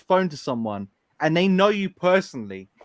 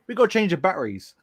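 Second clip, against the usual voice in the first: London accent; faster than usual. Shown as a demonstration. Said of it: "In London, it's like".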